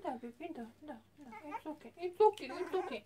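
calm the frightened puppy gently; soothing a scared dog. Real, not acted. Soothing puppy during bath.

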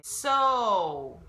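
a vocal coach modelling a word; English O in own. Shown as a demonstration. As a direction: own very slow and loud with a long rounded O gliding to U. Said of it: "例えばこのオーが入っている単語".

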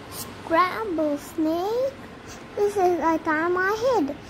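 drawn-out, slow rising question; alarmed question. Acted. Snake hears he is the favorite food, alarmed. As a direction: stretch it out in disbelief.

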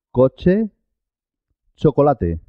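coche, chocolate with a clear "ch"; CH sound. Shown as a demonstration. Teacher giving examples after suena che, clear ch sound. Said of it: "suena che".

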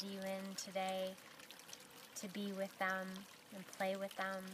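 unhurried meditation guide with long pauses; guided meditation. Acted. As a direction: gently lead them inward, leaving long silences between phrases.

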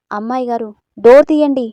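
loud, anxious call through a locked door. Acted. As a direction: shout to the girl inside to open up. Maid calling through locked door.

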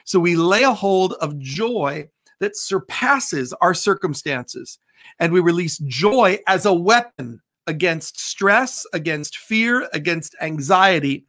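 measured prayer declarations, slowed on scripture. Acted. Pastor releasing joy over the congregation in prayer. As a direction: proclaim it like a closing prayer.

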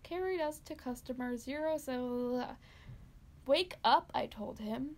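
story narration. Acted. Reads a dark Christmas story.

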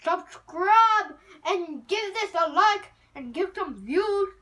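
upbeat outro. Real, not acted.

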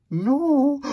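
high, loud burst of protest; shouted no. Acted. Reader refusing to stop the book, loud high shout. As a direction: yell it like a kid refusing. Protesting against stopping reading.

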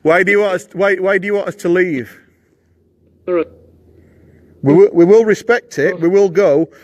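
talking to a ghost. Real, not acted. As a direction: speak up gently to an unseen presence. Pleading with the spirit.

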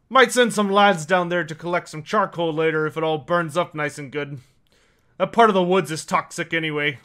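lightly voiced, grumbling dwarf; a hint of a dismissive dwarf elder; dwarf character. Dwarf shrugs off the burning woods, lightly voiced grumble.

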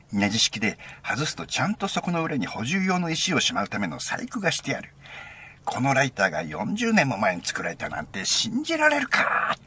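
imitated enthusiast, high swooping pitch; excited rattling-off. Friend arguing the lighter's history, imitated excited rattling-off. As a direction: gush out the facts as his excited friend. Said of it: "お前、そうまくし立てたんだよ。".

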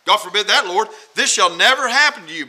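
insistent protest; mild rebuke. Acted. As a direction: object firmly, as a follower correcting his master. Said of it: "began to rebuke him".

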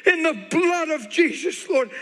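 slow, high, shouted declaration; full-force preacher's prayer cry; loud declaring. Retold or imitated. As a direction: declare it loudly, stretching the words out. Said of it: "I start declaring".

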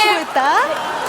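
slow, high, lilting 수고했다 with a rising end; sing-song senior's hello; drawn-out high greeting. Acted. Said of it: "수고했다. repeated".

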